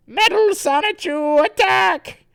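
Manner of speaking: high, loud battle order; theatrical shouted attack call; villain's command. Acted. Villain orders his robot to attack, shouting.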